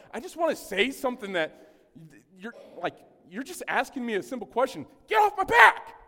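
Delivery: building to a sudden high, loud shout; mock angry outburst. Pastor acting his grumpy morning self, ending in a loud shout. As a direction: snap and yell the last words. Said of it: "you just woke up and like".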